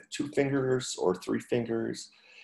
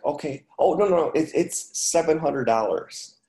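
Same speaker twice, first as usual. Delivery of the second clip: mock call from the back, raised pitch; retold yell back; 5 semitones higher, 4 dB louder than usual. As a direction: imitate calling back, a bit louder and higher. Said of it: "Harry would yell back".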